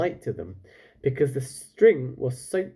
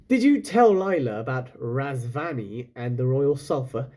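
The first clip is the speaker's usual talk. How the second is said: out of breath. Acted. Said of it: "he panted".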